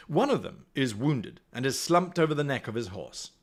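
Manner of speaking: storyteller setting the scene; story narration. A narrator's reading. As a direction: narrate it like an adventure tale. Reads gamebook aloud.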